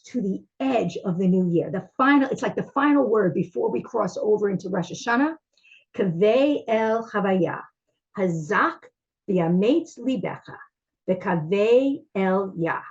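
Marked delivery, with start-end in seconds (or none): 6.0-12.8 slow, measured Hebrew blessing; slow prayerful recitation. Acted. Closing the psalm before Rosh Hashanah, slow and prayerful. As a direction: let each phrase land slowly like a prayer.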